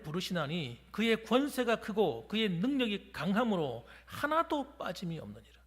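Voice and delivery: slow, declaiming the verse; scripture reading. Acted. Pastor reads Isaiah to congregation, slow proclamation. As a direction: proclaim the verse slowly, weight on each phrase.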